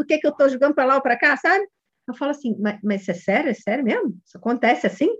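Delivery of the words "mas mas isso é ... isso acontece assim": softer, understated questioning; noncommittal. Shown as a demonstration. Coach asks a father so he cannot tell judgement, noncommittal. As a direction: probe gently without showing approval or criticism. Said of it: "assim, bem no meio do muro".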